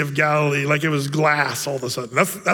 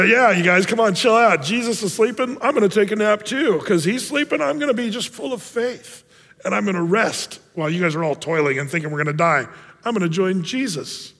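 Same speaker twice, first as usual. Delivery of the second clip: high and mighty. Retold or imitated. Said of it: "act very high and mighty".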